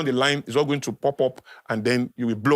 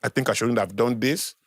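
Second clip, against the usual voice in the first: lower, subdued apologetic voice; sincere apology; 4 semitones lower than usual. Acted. Speaker models a full apology to an offended partner, sincere and subdued. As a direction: apologize earnestly, dropping the voice.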